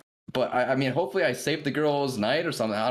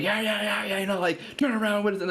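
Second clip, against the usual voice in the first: higher, mildly aggressive mock brush-off; aggressive guy; 9 semitones higher than usual. Stranger telling them to turn around, mild mock aggression. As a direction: imitate a hostile stranger waving them off, half-hearted. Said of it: "He was, like, super aggressive".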